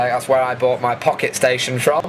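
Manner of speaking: normal talking voice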